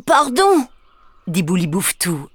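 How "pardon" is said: higher, sheepish little ogre apology; embarrassed. Acted. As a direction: say sorry awkwardly. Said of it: "embêté". (petit ogre embêté qui s'excuse)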